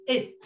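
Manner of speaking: it with a puff of air on the final t; It, release the final t with breath; teacher stressing the aspirated final t of it. Shown as a demonstration. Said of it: "đừng quên bật hơi cái âm tiết cuối".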